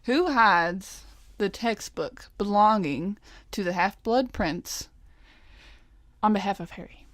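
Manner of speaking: slow, clearly spaced words; slow careful reread. Shown as a demonstration. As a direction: read it again slowly.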